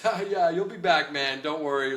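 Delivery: a hint of a smug old-timer; condescending coworker. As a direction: pat him on the head with words.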